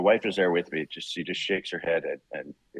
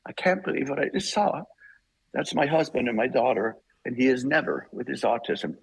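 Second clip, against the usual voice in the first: much higher, imitating a crying wife; retold tearful wife; 4 semitones higher than usual. Tearful wife telling him what she just saw, high imitating. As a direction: voice the wife overcome with tears, pitched well up. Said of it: "she's bawling".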